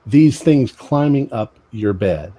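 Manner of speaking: slow, emphatic narration; game master scene setting. Acted. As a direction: address the players slowly, pausing between phrases.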